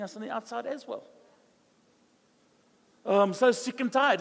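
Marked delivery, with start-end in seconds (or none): 3.1-4.2 whiny moan, a bit louder; mock complaining. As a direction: whine about always being sick and tired. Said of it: "It's funny how you're always sick and tired".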